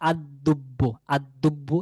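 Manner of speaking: "আদ-দুব্বু" with doubled d, no l; silent lam. Shown as a demonstration. Teacher naming the definite bear, "আদ-দুব্বু" with lam silent. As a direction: hold the d in "আদ-দুব্বু". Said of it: "লামটি উচ্চারণে আসবে না".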